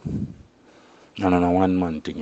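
slow, drawn-out, weighted repeat; slow emphatic repeat. Shown as a demonstration. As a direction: lean on each word of "And on a one man thing" slowly.

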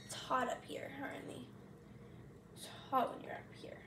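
hushed whisper to the pet; soft pet talk. Real, not acted. Warning her pet softly that the counter is hot. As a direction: murmur it gently to him.

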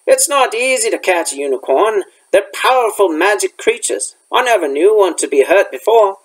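lightly voiced rustic gamekeeper; a hint of a folksy, dialect-speaking gamekeeper; Hagrid.

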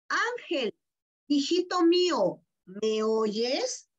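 a hint of God calling tenderly to a child; lightly voiced God. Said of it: "está preguntando Dios".

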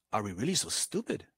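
a deflated man asking his friends; disheartened. Retold or imitated. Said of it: "depressed, disheartened look".

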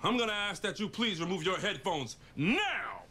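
firm police officer tone; stern traffic stop officer; cop voice. Acted. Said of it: "Winston found his cop voice".

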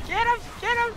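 loud shout. Real, not acted. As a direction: scream the callout urgently. Calling out during a fight.

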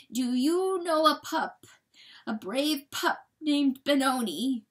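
high, loud, slow question; desperate pleading. A narrator's reading. Coyote asking John about his pup, desperate pleading. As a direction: plead slowly and intensely.

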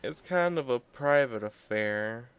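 high, slow put-on voice; high slow worried whisper-like thought; inner voice. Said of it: "'cause I'm like".

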